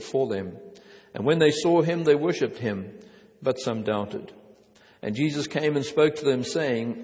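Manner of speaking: measured, solemn Bible reading; a pastor reading Matthew aloud to the congregation; scripture reading. Acted. Reads scripture passage aloud.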